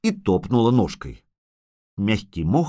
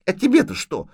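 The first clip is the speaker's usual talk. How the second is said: put-on high, sniffly child's retort; sniffling; 9 semitones higher than usual. A narrator's reading. Little girl rebuffs the witcher, sniffling and high. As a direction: snivel back in a raised pitch. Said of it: "хлюпнула она носом".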